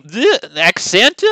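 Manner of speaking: "accent" drawn out slowly with a rising finish; altered ending on "accent". Shown as a demonstration. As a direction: finish off "accent" with an added vowel, as a question. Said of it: "Like that?".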